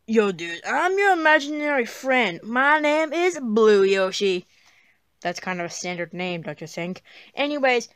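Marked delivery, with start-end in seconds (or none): 0.1-4.5 lightly voiced dude character; laid-back imaginary friend.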